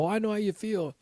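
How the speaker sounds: high-pitched imitation of easy sympathy; lilting, too-easy condolence; glib mock sympathy. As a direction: mimic someone gushing that they understand. Quoting glib would-be sympathizers.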